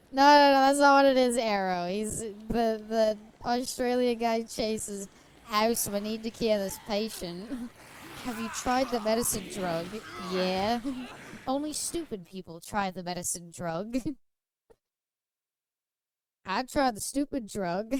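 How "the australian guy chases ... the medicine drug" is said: badly faked Australian accent; a hammy Aussie doctor. Streamer spoofing doctor show in bad Australian accent. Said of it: "That wasn't even good Australian".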